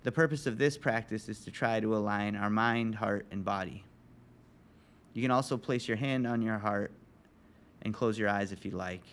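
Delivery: calm, measured breathing guidance; guided meditation. Real, not acted. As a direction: guide listeners into stillness, leaving long pauses.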